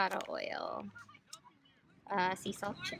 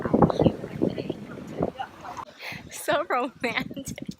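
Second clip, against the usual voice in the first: loud gushing; 4 semitones higher, 7 dB louder, slower than usual. Real, not acted. Gushing at couple.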